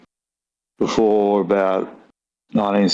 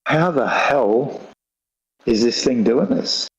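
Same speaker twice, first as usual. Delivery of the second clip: floored amazement; 2 semitones higher than usual. Retold or imitated.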